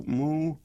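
plain cartoon cow moo; mock cow moo. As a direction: give a simple farmyard moo. Imitating a nursery-rhyme cow.

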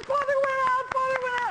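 very high, cheering chant; mock cheering. Clapping prayer group cheering that the priest fell, very high. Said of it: "they all start clapping".

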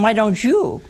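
pointed comeback stressing you; sassy retort. Retold or imitated. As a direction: throw the question back at him. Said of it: "I bet she said to him".

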